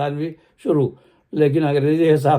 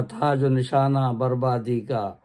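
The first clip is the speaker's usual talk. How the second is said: slow, measured poem recital; stately nazm recitation; slower than usual. Acted. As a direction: recite each line slowly and with weight. Recites his own nazm. (باوقار انداز میں آہستہ نظم خوانی)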